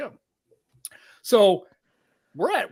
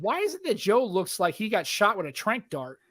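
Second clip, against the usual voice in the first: climbing higher with mock disbelief; incredulous friend; 6 semitones higher than usual. Friend mocking his odd photo face, rising incredulous voice. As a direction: tease him like a baffled friend. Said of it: "She goes".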